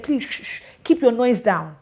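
hushed shh into a soft plea; shushing whisper. Retold or imitated. Security guard hushing the friend, whispered shh. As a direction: hush him like a security man. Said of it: "Even boss man said".

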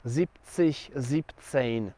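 "Siebzig, siebzehn", each starting with one-syllable "zip"; shortened forms. Shown as a demonstration. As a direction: model "Siebzig, siebzehn" as zip-tsish, zip-tsejn. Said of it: "tylko w jednej sylabie". („Siebzig, siebzehn” ze skróconym zip na początku)

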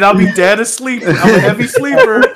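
slow, laughing through the words; mock the dad while cracking up; giggling as you play the dad; laughing mock quote.

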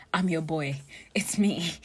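conspiratorial whispered pitch; playful whisper. Pretend. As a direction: whisper it like a secret agent. Jokingly offers detective services.

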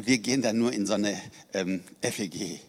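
imitating her embarrassed mumble, voice dropping on F E G; sheepish, odd tone. Preacher imitates the woman playing down her church, sheepish mumble. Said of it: "wieso sagst du das so komisch".

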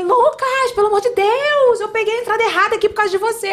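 high, loud stressed mom yelling at her son; exasperated yell. Retold or imitated. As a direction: yell it out in a panic while driving. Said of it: "aí eu falei". (gritando desesperada com o filho)

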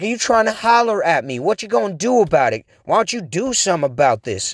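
imitating a tough girl calling him out; gangstery girl. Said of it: "kind of a little bit gangstery".

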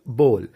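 बोल with a long "o", rhyming with goal; correct pronunciation. Shown as a demonstration. Teacher spelling it the easy way, correct pronunciation. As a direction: say बोल as "bole". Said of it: "easy way में लेंगे".

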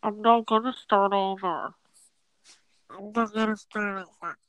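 talking through a pinched nose; nasal, nose-held voice. Pretend. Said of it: "Are you pinching your nose?".

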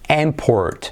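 IMport, falling after IM; stress on first syllable. Shown as a demonstration. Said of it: "Como nombre". (import con acento en la primera sílaba)

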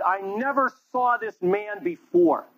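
Peter's denial. Acted.

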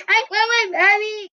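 high, tearful wail for mommy; crying child. Acted. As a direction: sob like a scared kid. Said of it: "cried another".

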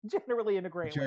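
chuckling through the words; laughing. Real, not acted. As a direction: repeat it with a laugh breaking in. Laughing while repeating own phrase.

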